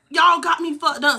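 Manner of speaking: high, slow mock yell of an angry mother; mama yelling. Mother confronting the kids, high slow yell. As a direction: play mama storming in, furious and high. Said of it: "So my mom like".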